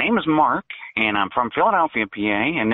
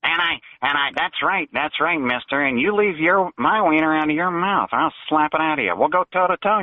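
Looney Tunes voice. Acted. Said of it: "You sound like a Looney Tunes character".

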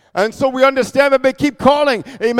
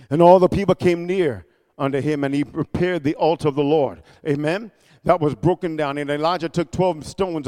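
lower, softer scripture reading; subdued reading; 7 semitones lower, 6 dB quieter than usual. Real, not acted. Preacher telling of the altar repair, subdued. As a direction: read it out with hushed restraint.

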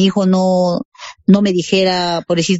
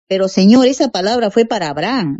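mildly doubting, voice lifting a little; half incredulous. Retold or imitated. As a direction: gently question it, half disbelieving. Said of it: "Yo todavía media incrédula".

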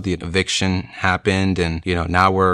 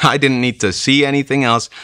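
laughing; 6 semitones higher, 3 dB louder than usual. Real, not acted. Laughing at remembered fear.

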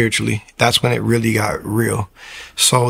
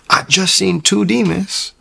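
imitated fright; 8 semitones higher, 3 dB louder, slower than usual. Frightened girlfriend quoted after scream.

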